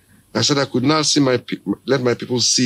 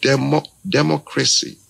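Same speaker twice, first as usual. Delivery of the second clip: democracy said the English way, dem-OC-racy with a clean short o; English pronunciation. Retold or imitated. The speaker showing listeners the English way to say the word. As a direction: mimic how an Englishman says democracy. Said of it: "the Englishman will say".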